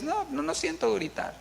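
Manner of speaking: a high, soft, feeble cry of help with no push; mock someone calling ayuda far too softly; meek mock call for help. Preacher mocking a soft, high call for help during a fire. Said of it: "no dices".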